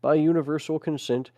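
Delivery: measured, solemn reading of a record; deliberate phrasing with short pauses; formal read-aloud. Acted. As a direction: read it out like an official proclamation. Reads a text aloud.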